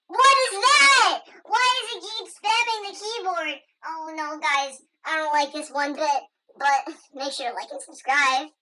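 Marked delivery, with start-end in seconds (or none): 0.1-3.6 alarmed surprise. Pretend. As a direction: react in startled disbelief. Confused by diary.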